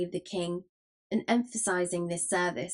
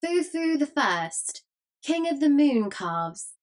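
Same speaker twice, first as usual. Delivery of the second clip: high, drawn-out mock proclamation; shrieked suggestion; 7 semitones higher, 4 dB louder, slower than usual. A narrator's reading. Tinker shrieks a mock title to the crew, shrieking. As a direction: call it out slow, high and louder. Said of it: "A tinker shrieked out a suggestion".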